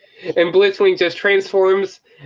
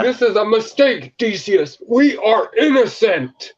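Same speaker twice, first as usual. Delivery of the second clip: higher, protesting character voice; pleading prisoner; 6 semitones higher than usual. Retold or imitated. Fan acting an accused robot before judges, high mock plea. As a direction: plead innocence, pitched up and drawn out at the end.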